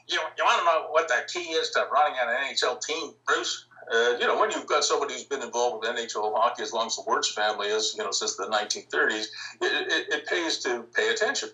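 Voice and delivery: a light, lightly imitated Midwest accent. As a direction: ease into a mild Midwest accent, quoting the old team owner. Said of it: "that Midwest accent, kinda like this".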